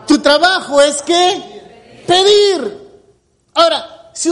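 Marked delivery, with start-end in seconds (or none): 0.1-2.9 slow solemn quote. Acted. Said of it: "¿qué dice?".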